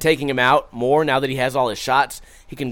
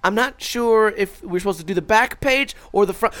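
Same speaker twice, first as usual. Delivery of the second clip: fake innocent parent question; 4 semitones higher, 3 dB quieter than usual. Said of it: "I'd be like".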